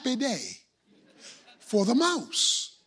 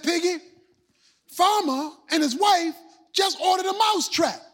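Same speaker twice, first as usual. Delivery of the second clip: alarmed shout; 4 semitones higher than usual. Acted. Mouse shouts a warning to the pig, alarmed. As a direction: cry out the news to the pig in alarm.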